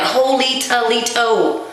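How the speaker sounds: slow, drawn-out disbelief; stunned exclamation. Retold or imitated. Child at the butcher seeing blood and guts, stunned slow gasp. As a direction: let the shock sink in slowly. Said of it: "I was like".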